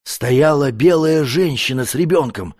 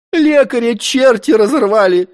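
sudden scared blurt, higher; lackey blurting it out in fright; a footman blurts it out in a panic; 8 semitones higher, 4 dB louder than usual. A narrator's reading. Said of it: "вдруг брякнул один из лакеев".

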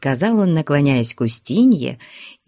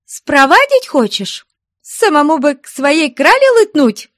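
high, loud suspicious jab; jealous accusation; 11 semitones higher, 6 dB louder than usual. Acted. Jealous woman suspecting a rival, accusing. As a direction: hurl the accusation at him.

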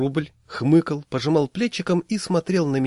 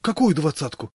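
frightened; 5 semitones higher than usual. Acted. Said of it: "испуганно спросил Машкин".

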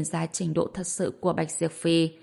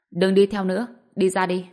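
calling out loudly; 5 dB louder than usual. Acted. Calling out to hidden follower.

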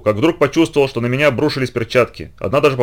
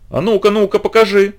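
much higher, squinting demand; suspicious demand; 9 semitones higher than usual. Acted. Girl suspiciously demands to see the gloves, squinting. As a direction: demand to see it, narrowing your eyes. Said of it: "ещё подозрительнее прищурилась Лидка".

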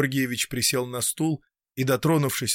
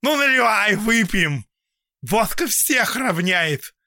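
high, loud drinking toast; rough toast; 8 semitones higher, 4 dB louder than usual. A narrator's reading. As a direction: call for vodka gruffly. Drunk old man's toast.

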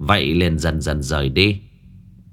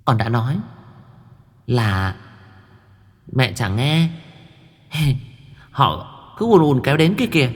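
giggling reproach; 5 semitones higher than usual. A narrator's reading. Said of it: "cười khúc khích, nó trách".

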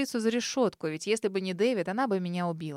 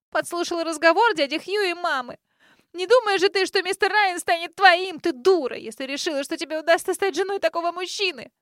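hysterical taunting; 8 semitones higher, 6 dB louder than usual. A narrator's reading. Grace keeps yelling hysterically.

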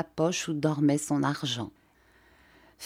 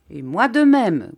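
concluded; 4 semitones higher, 7 dB louder than usual. A narrator's reading.

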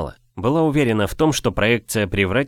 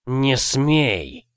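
plain reading voice

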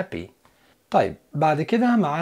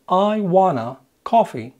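slow wrong example; 3 semitones higher, 4 dB louder, much slower than usual. Shown as a demonstration. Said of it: "ما ينفعش تقول".

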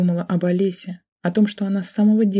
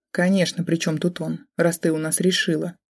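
ordinary delivery, nothing marked

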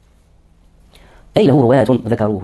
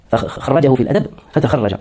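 slow dictation; slower than usual. Shown as a demonstration.

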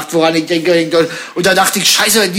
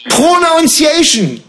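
slow drawn; 6 semitones higher, much slower than usual. Pretend. Drawn-out English word.

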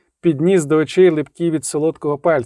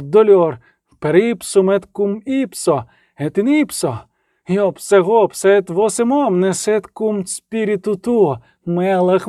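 emphatic, raised spell chanting; incantation; 4 semitones higher than usual. A narrator's reading. Reynevan carrying on the exorcism on a full breath, chanting. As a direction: hurl out each magic word.

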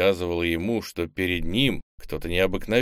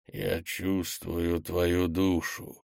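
slow monster voice; 4 dB quieter, much slower than usual. Acted. Monster savoring victim.

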